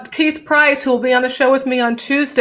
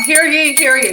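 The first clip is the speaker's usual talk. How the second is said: proclaiming like a town crier; 3 semitones higher, 3 dB louder than usual. Pretend. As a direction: announce it like a town crier with a bell. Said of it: "Love when you do this with the bell".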